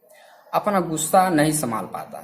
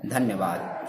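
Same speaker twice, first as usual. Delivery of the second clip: a soft, low thank-you, barely voiced; 7 semitones lower, 5 dB quieter, slower than usual. A narrator's reading. Maid thanking her master, softly and low. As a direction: say it quietly, eyes down. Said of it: "धीमी स्वर में बोलती है".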